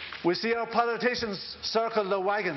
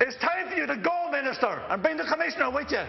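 impassioned demand; 4 semitones higher, faster than usual. Real, not acted. Closing demand in Dáil speech.

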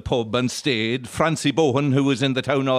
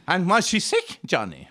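nosy mourner; 6 semitones higher than usual. Acted. Mourner questioning widower at wake.

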